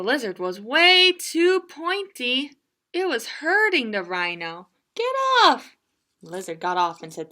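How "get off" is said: high, sharp "Get off!"; mock yell. Rhino hurt by the pointy lizard, high sharp yell. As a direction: shout it in pain.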